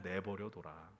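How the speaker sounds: low, soft drop; hushed, defeated murmur; resigned and weary. Acted. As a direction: let it go in quiet defeat. David's resigned reply, acted.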